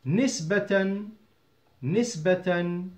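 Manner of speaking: slow, careful "نسبة" as nis-ba-tan; two-fatha ending. Shown as a demonstration. Teacher introducing an important word, "نسبة" slowly sounded nisbatan. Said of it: "نسبة has two fatha".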